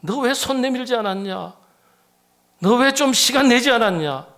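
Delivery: rebuke. Acted. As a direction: demand it like a reproving master. God rebuking priest and Levite.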